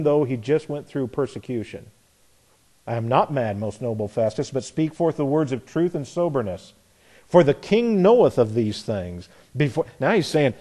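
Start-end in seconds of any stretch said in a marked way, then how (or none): 2.9-9.3 calm decorum. Acted. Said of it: "Notice the decorum Paul keeps".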